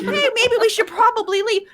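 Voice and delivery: imitated casual suggestion; mock calm. Player mocks the woman's calm exit line, mock casual. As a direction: play it too composed for the danger. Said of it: "Calmly be like".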